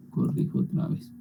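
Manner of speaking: corrijo otra vez en susurro; susurro para sí. Real, not acted. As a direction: murmura para sí al corregir. Murmura mientras corrige. (corrijo otra vez susurrado)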